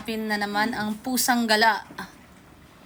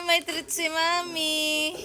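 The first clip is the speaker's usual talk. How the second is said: sing-song to cat; 3 semitones higher, slower than usual. Real, not acted.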